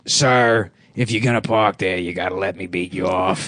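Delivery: low, deadpan cop voice. Pretend. Cop addressing parked driver.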